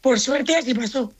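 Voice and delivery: post-celebration hoarse voice; hoarse from celebrating. Real, not acted. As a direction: voice worn from yesterday's celebration. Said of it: "la voz esa se te ha quedado".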